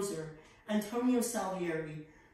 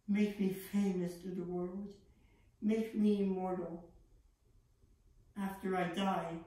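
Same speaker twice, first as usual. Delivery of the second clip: earnest prayer. Acted. Boy vowing his life to the Lord, hushed prayer. Prays aloud to God.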